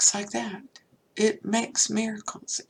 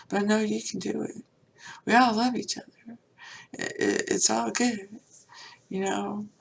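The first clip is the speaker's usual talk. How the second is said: retold tearful plea; 2 semitones higher than usual. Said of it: "I burst into tears, and I started crying".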